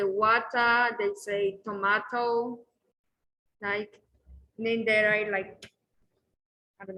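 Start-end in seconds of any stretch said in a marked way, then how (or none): 0.0-0.9 water ending in an open "ah", no R; British "wa-tah" for water; British R-less pronunciation. Shown as a demonstration. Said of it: "they don't pronounce the letter R". 1.6-2.6 tomato with a long "ah" in the middle; British-style tomato, broad A; British pronunciation. Shown as a demonstration. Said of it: "That's why they say".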